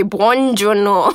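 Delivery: "buongiorno" very slow, laughing; careful Italian. Shown as a demonstration. Host practices "buongiorno" slowly for her teacher. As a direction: sound out "buongiorno" syllable by syllable. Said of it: "practicing Italian greeting".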